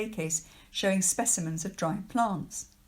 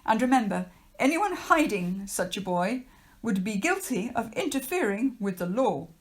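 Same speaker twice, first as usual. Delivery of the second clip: stern official; 3 semitones higher than usual. Acted. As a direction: lecture the children like a pompous official. Trapwood threatens.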